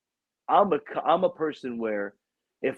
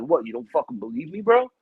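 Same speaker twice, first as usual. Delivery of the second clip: indignant. Retold or imitated. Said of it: "I'm like".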